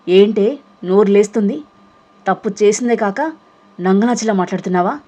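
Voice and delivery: scornful scolding burst; furious tirade. Acted. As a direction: lash out like a shrew. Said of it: "శంకినిలా విరుచుకుపడింది Subhadra".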